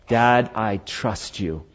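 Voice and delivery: slow, gentle declaration of trust; trusting son. Acted. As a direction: tell your father softly and sincerely. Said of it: "Isaac trusts his father".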